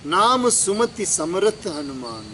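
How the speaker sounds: slow, measured scripture quote; verse recitation. Real, not acted. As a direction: recite the line slowly before explaining it. Recites verse before explaining it. (धीमा चौपाई पाठ)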